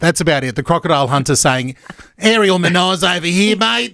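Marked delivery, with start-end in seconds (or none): 2.2-3.9 Steve Irwin impression. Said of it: "I can say it like Steve Irwin".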